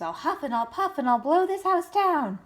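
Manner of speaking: high, theatrical wolf voice; wolf threatening the pigs, hammed up; big bad wolf. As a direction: huff it out like the wolf in a storybook. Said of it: "where the wolf says".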